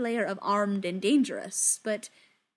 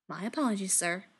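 snippy; 2 semitones lower, 3 dB quieter than usual. Acted. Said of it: "managing to sound snippy about it".

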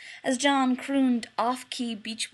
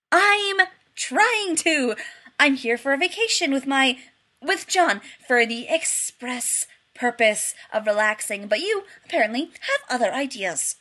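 exasperated; 4 semitones higher, 5 dB louder than usual. Acted. Exasperated Rodney complains.

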